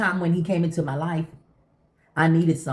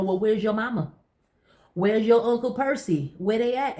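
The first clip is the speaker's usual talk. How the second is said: talking to a cat; 6 semitones higher than usual. Retold or imitated. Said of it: "so I'm asking her".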